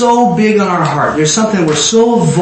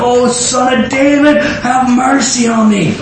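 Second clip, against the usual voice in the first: slow, slightly raised cry of appeal; 4 semitones higher, slower than usual. Acted. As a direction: plead it out slowly, drawing out each phrase. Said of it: "By so much more was cried out".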